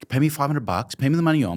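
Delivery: retold heated demand for owed wages; angry demand. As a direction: insist on the money you're owed, voice rising.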